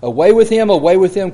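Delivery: scripture outcry, read with added force; retold crowd cry. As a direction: lift the voice a little to quote the crowd's demand. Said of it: "And they cried out".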